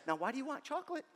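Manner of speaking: nagging inner voice. Retold or imitated. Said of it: "a little voice pops up".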